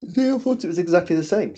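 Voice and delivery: talking through a yawn; words stretched by a big yawn. Real, not acted. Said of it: "Excuse me for yawning".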